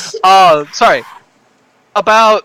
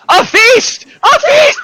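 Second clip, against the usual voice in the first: high, loud announcing shout; calling out; 5 dB louder, slower than usual. Acted. Rodney calling out from the bar, high full shout. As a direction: proclaim it to the whole tavern. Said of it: "Rodney from the bar calls out".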